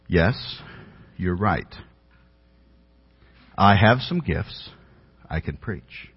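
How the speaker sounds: a slow, matter-of-fact calm, no fuss; calmly stated. Retold or imitated. Evangelist calmly agreeing with the young pastor over lunch, calm. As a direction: state it plainly, unbothered, as a simple fact. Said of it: "he just very calmly said".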